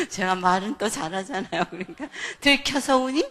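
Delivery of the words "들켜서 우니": loud, higher taunting question; acted taunting. Mother taunts crying child about being caught, loud. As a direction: jab at the crying child, hammed-up.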